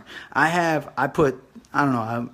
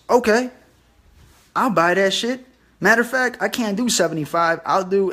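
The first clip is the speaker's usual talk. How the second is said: eager buyer; 5 semitones higher than usual. Retold or imitated. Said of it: "And he goes".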